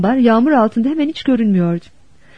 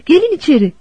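higher-pitched, mildly raised call; 5 semitones higher than usual. A narrator's reading. Mother beckons family into the barn, calling out. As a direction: summon them inside. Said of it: "diye bağırdı Anne".

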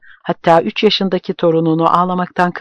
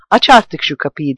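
mild shout; 3 dB louder than usual. Acted. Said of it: "diye bağırıyor".

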